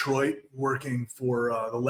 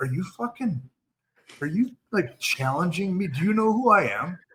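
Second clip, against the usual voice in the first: jokey mock-indignant bravado, pitched-up, swooping, sarcastic; 6 semitones higher, 4 dB louder than usual. Acting out a man's answer to a woman who offered training wheels for tequila, retelling someone's sarcastic, funny challenge. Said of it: "he was being sarcastic and being funny".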